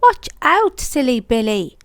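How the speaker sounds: high, loud sudden warning cry; peeped warning. A narrator's reading. Percy warning Billy under the hopper, loud and high. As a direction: warn him before the crash. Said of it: "Percy peeped".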